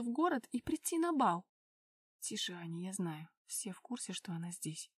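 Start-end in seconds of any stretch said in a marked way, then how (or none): 2.2-4.9 low, hushed, half-whispered warning; whispered reply. A narrator's reading. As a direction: drop to a low, secretive near-whisper. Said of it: "шепнул он в ответ".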